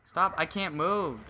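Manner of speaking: loud, slow panicked plea; panicking gamer. Real, not acted. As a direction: panic as you get stuck. Stuck in game, panicking.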